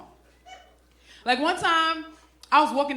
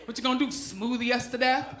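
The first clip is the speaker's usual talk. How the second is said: mocking fake fear; 4 semitones lower, 5 dB quieter than usual. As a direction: taunt them, totally unimpressed. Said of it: "Don't nobody care".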